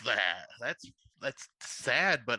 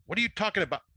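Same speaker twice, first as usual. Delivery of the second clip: higher-pitched, mildly incredulous question; a touch of bewildered protest, pitched up; baffled question; 6 semitones higher, faster than usual. A narrator's reading. Eric to Beth on the phone, baffled.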